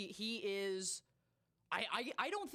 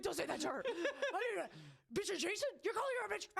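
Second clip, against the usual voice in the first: mock outraged yelling at screen; 7 semitones higher than usual. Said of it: "I'm like".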